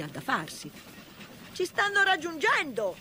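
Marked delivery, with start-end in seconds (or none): 1.5-3.0 high, loud cry of warning; alarmed shout. Acted. Engineer warns Toad the pursuers are gaining, high alarmed shout. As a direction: call out the danger urgently. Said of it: "gridò il macchinista".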